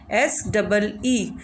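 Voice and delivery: letters spelled slowly one by one. Shown as a demonstration. Teacher spelling a word to pupils, slow and deliberate. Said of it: "जैसे कि सी".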